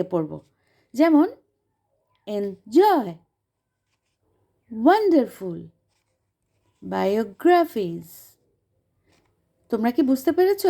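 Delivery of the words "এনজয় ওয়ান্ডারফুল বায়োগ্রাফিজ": এনজয় with the push on "জয়", ওয়ান্ডারফুল hit hard on "ওয়ান", বায়োগ্রাফিজ leaning on "অ" and drawn out; each word read apart with its bold syllable punched; stressed syllables. Shown as a demonstration. Teacher showing students the stressed parts of এনজয়, ওয়ান্ডারফুল, বায়োগ্রাফিজ. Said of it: "আমি একটু stress দিয়ে পড়েছি".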